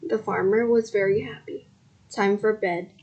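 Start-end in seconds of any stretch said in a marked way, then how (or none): 2.1-2.9 sleepy yawning voice. Acted. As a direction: say it through a yawn. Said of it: "he said, yawning".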